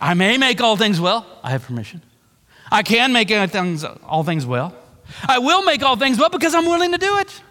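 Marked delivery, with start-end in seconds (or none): 5.3-7.4 fervent declaration. Acted. Voicing Jesus, rising fervor.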